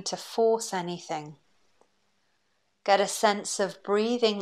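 calm, unhurried breathing-exercise voice; guided meditation. Acted. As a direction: guide them gently through each breath, leaving long pauses.

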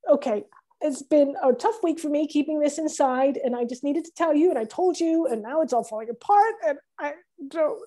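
confession starting to fall apart; on the verge of crying; close to tears. Acted. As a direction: hold back tears as it all spills out. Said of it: "Are you crying?".

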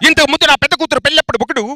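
angry father, rising to shouting; furious building tirade; Prakash Raj. Acted. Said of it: "first గా ప్రకాష్ రాజ్ గారు".

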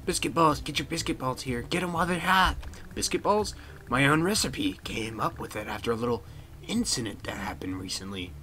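lightly voiced vendor, sinking to a hush at the end; janitor character. Janitor selling biscuit balls, folksy hawker voice. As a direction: hawk food, then drop off confidentially.

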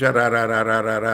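demo stutter. Shown as a demonstration. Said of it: "کی گفته لغت رفتن باید گفت رفتن؟".

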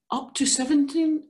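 accidental misreading before self-correction; misread number. Real, not acted. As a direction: slip of the tongue on seventeen. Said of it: "up to seven times".

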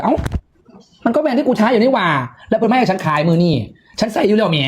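surprised little protest, replayed; retold surprise. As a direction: act out being taken aback. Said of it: "เราตกใจ ตอนแรกอะ เราตกใจ".

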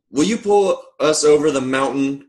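storybook cry for help. A narrator's reading. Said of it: "cried the dolls and toys".

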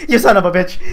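chuckling as he swears; laughing curse. Real, not acted. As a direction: laugh through the words.

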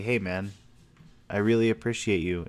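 plain and sincere, meaning it. Shown as a demonstration. Showing a friend how a sincere thanks sounds, warm. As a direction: say it like you truly mean it. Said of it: "know that I'm not being sarcastic".

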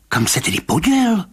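high, agitated question; feverish blurting. A narrator's reading. Rybka asking where the walker went, feverish high outburst. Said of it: "Vyhrkl Rybka zimničně".

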